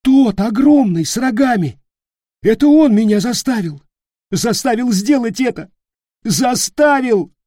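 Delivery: high, loud, tearful begging; sobbing plea. Acted. Sobbing Leroy pleading with Peter, high and loud. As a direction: cry it out desperately. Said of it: "Лерой уже плакал навзрыд".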